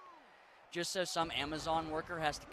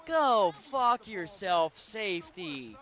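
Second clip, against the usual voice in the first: angry yell; 3 semitones higher, 7 dB louder, much slower than usual. Real, not acted. Yelling at game safety.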